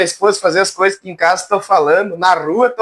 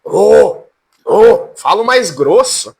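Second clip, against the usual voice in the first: mock thickened preacher voice; 4 dB louder, much slower than usual. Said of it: "Eles engrossam a voz".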